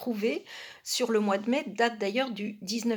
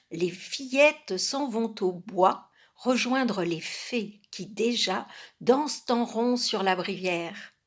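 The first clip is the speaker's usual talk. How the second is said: measured, lilting poetry reading; poem recitation. Acted. Reader reciting a lily-of-the-valley poem, poem recitation. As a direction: recite it line by line, with pauses.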